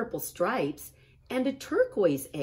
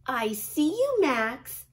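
higher, louder sing-song call; big sister Ruby; 8 semitones higher, 6 dB louder, slower than usual. A narrator's reading. Ruby pretending to see hiding Max, a higher and louder call. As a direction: pretend you've spotted him. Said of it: "said Ruby".

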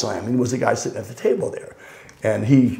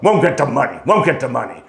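lightly voiced mob enforcer, repeated; a touch of tough-guy menace; understated mafia hitman warning; 4 dB louder than usual. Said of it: "it just sounded like an enforcer".

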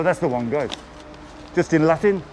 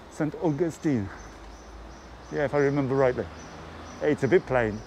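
crunching chips while talking; 4 dB quieter than usual. Real, not acted. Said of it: "Sorry for the crunching".

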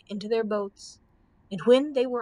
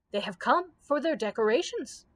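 mildly formal announcement; announcing; 3 semitones higher than usual. A narrator's reading. Grand Choo Choo presents the army to the Scarecrow, announcing. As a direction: announce it to the ruler. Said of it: "announced the Grand Choo Choo".

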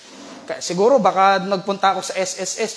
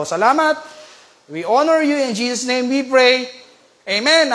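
earnest spoken prayer with falling phrase endings; congregational prayer; 2 semitones lower than usual. Real, not acted. Preacher thanks God before the message, in earnest prayer. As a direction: lead the church in thankful prayer.

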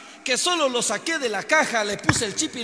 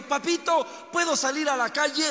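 put-on higher and louder, a restless kid pleading; begging little boy; 4 semitones higher, 3 dB louder than usual. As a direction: beg your papa to let you out and play. Restless boy begs his father.

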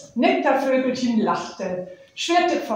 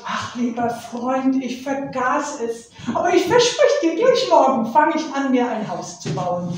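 hasty bird promise; 3 semitones higher than usual. Acted. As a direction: rush the promise out. Nektarvogel verspricht hastig. (hastiges Versprechen des Vogels)

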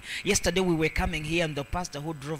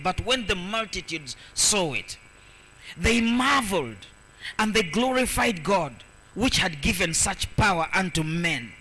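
proclaimed Bible verse; 2 semitones higher than usual. Acted. Preacher reading verse eight to the congregation, proclaimed. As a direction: proclaim the verse, stretching the marvel.

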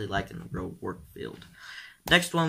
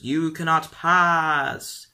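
mock wizard boom; 4 semitones higher, 5 dB louder, much slower than usual. Quoting Gandalf sign, slow.

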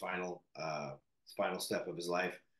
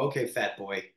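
mock scolding self-talk; 4 dB louder than usual. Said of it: "look in the mirror and go".

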